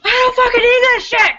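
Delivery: dad barking before he hangs up; imitating angry dad. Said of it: "He's like".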